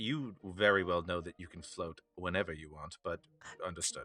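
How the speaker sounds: whisper. Voicing a character in a group story who whispers to her, whispering. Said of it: "he whispers at her".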